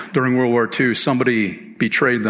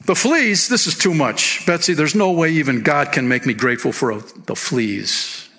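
mild meltdown. Retold or imitated. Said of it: "Corey had a meltdown".

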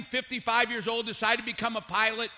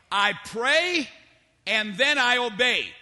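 resolute, with a settled fall on obey; firm obedience. Acted. Preacher models the obedient believer's answer, firm obedience. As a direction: state it as a firm rule, pausing midway.

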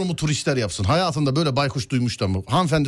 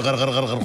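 while gargling; 5 semitones lower, faster than usual. Pretend. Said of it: "gargara yapıyor".

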